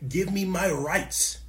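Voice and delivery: slow, drawn-out protester demand. Retold or imitated. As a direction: stretch it like a chanted sign slogan. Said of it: "people holding up signs saying".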